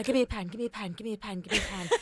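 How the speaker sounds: high, repetitive urgent begging; frantic demand. Retold or imitated. Wired daughter demanding a pen from mum, frantic. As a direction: imitate someone wired and desperate to write.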